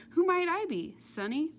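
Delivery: put-on high, loud old grandma cackle; grandmother voice. A narrator's reading. Paul speaking with a grandmother's voice, high cackling. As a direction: ask like a cackling granny. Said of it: "sounded like somebody's grandmother".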